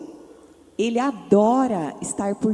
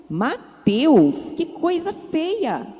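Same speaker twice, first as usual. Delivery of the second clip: indignant; 6 semitones higher, much slower than usual. A narrator's reading. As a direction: scold him with drawn-out, higher-pitched reproach. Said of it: "Cláudia ficou indignada e disse". (bronca indignada)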